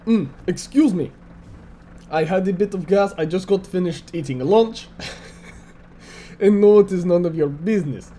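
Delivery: a light, hammed-up Russian accent all through; mock Russian accent, lightly done; bad Russian accent. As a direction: play a jokey Russian tank commander with a thin Russian accent. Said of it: "I'm doing my bad Russian accent".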